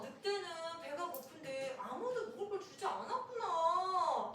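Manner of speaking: slow, drawn-out sympathetic realization; teacher's sympathy. Acted. Teacher reflecting children's answer about the hungry wolf, sympathetic. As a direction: echo the children with exaggerated understanding.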